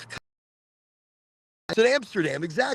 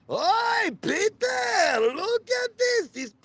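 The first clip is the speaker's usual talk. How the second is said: hysterical mother; 13 semitones higher, slower than usual. Retold or imitated. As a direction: shout it like an excitable mother gawking. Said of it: "my mother was always like".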